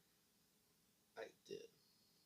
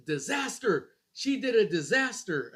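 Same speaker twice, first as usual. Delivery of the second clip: slightly raised imitated alarm; mock yell; 5 semitones higher, 4 dB louder than usual. Husband imitating wife announcing the baby's mess, mildly raised. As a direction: call out the disaster like the wife. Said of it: "she goes".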